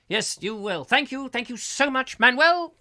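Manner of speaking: very high, rising to a loud squeak on Manuel; sarcastic gratitude through clenched politeness; exasperated hotel owner. Retold or imitated. Host ends the sitcom scene in mock exasperation. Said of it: "my voices".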